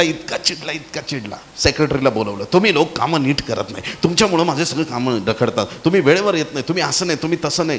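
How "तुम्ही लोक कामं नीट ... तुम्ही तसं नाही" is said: a touch of an irritated boss; mock scolding. Boss scolding his secretary for no reason, mildly acted. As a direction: reel off complaints in a mild retold telling-off. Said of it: "सेक्रेटरीला फुल झापलं त्याने".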